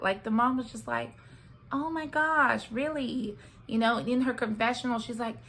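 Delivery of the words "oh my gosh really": retold disappointment, a touch of sadness; mildly sad. Mom hearing her daughter sees Chris as a friend, sad. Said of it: "the mom seemed really sad about that".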